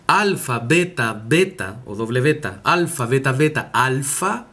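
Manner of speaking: alfa, beta, beta, alfa spelled letter by letter; spelling out letters. Shown as a demonstration. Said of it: "Por ejemplo". (deletreando alfa, beta, beta, alfa)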